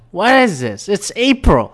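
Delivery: high-pitched imitation of a yelling woman; mock yelling. Random lady yelling at a passerby about the weather, mock yell. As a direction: wail it like an outraged passerby, imitating. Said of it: "She started yelling".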